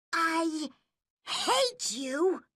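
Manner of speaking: put-on high, furious childish shout; angry shout. A narrator's reading. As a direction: shout it at her in a rage. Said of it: "she shouted angrily".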